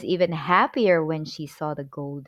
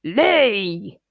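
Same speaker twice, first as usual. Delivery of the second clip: louder barked order to the hen; shouted command; 5 dB louder than usual. A narrator's reading.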